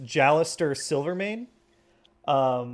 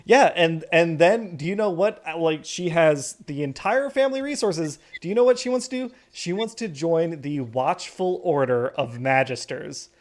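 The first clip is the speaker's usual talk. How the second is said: gushing mom; 3 semitones higher than usual. Acted. GM voices gossiping mom.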